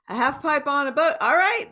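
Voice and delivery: mock astonishment at a skate ramp on a ship; amused disbelief. Reacting to the cruise's half pipe, in amused disbelief. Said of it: "where I'm like".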